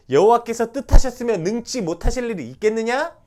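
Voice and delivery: loud, high proclamation; proclaiming. Acted. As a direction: ring it out to the congregation. Preacher proclaiming loudly. (힘차게 선포하는 설교)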